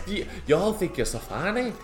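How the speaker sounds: high-pitched Irish mimicry; put-on Irish lilt; mock Irish accent. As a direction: copy an Irish woman's taunt. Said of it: "How do I do an Irish accent?".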